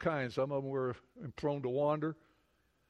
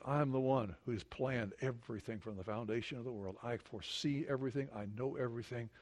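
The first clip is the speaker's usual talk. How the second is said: low solemn God voice; 6 semitones lower, 6 dB quieter than usual. Acted. God voiced after mocking gods.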